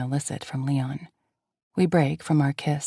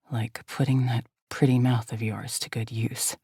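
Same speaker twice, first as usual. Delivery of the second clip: lower, teasing leading man; low seductive male voice; 4 semitones lower than usual. Acted. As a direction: purr it low to her. Hero's low seductive reply.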